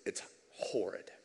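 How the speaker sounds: a low whisper of dread at horrid; hushed. Real, not acted. Preacher repeats horrid, hushed first.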